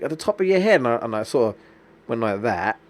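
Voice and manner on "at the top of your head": high, loud alarmed pointing out; alarmed receptionist. Retold or imitated. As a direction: tell him where the blood is, in alarm. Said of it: "and she's like".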